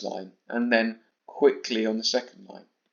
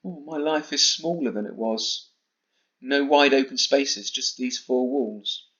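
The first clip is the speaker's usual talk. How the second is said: sadder; 3 semitones higher than usual. Shown as a demonstration. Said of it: "I tried to sound a bit sadder in the first part".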